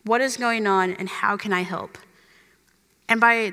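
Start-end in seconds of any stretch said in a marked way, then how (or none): 0.0-2.0 sweet friend. Retold or imitated. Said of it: "I had a sweet friend ask me".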